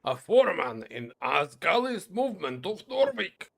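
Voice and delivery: lightly voiced gruff older dwarf, proud and scornful; a hint of a haughty old dwarf sneering at a child; new dwarf voice. Old dwarf scorning the young stranger, mildly voiced. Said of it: "come up with a different dwarf voice".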